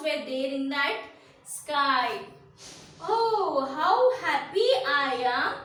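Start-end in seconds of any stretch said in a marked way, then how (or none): 3.2-5.5 a touch of a happy little kite; joyful cry. Acted. Teacher voicing the little kite for children, mildly joyful. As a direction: call it out with mild delight. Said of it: "the little kite cried".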